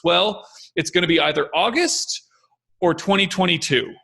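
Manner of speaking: sure of himself, no doubt in the voice; confident answer. Shown as a demonstration. Expert answering a question about the virus, confidently. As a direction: announce both dates like settled fact. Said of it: "I say with confidence".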